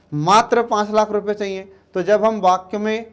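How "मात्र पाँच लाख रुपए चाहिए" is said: मात्र hit hard at the start; stress on मात्र. Shown as a demonstration. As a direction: punch मात्र, then the rest plain. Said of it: "बल लगाकर या जोर देकर". (मात्र पर ज़ोर)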